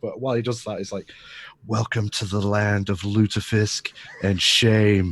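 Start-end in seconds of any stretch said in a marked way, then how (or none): 1.7-5.1 slow, close, leaned-in stage whisper. Playing a character greeting a new family member into her ear: whispered. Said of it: "just whisper it into, into her ear".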